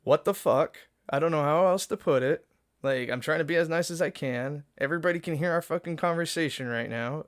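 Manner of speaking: loud, furious venting; angry rant. Real, not acted. Streamer venting to viewers about the woman, loud and angry. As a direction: blow up at the situation, loud.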